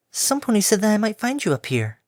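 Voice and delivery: airy timid pegasus; gentle mare voice. Acted.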